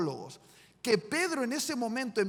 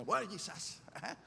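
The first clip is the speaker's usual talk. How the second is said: tense Peter; 5 semitones lower, faster than usual. Acted. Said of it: "Pedro tenso y dice".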